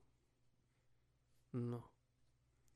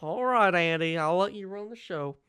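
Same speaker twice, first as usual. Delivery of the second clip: put-on girl voice; 4 semitones higher, 4 dB louder than usual. Character giving in to the sheriff in a girl voice. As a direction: drag out the all right girlishly. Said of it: "a girl voice and a Russian voice".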